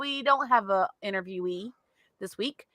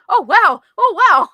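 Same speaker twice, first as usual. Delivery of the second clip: high, loud mimicking of co-host; mock amazement; 10 semitones higher, 10 dB louder, slower than usual. Teasing co-host over his surprise, high mock amazement. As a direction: exaggerate his wowed reaction, pitched way up. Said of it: "He's like".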